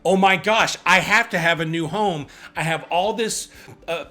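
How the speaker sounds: frantic buyer. Pretend. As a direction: ham up a frantic covid buyer. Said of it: "I'm just going crazy today".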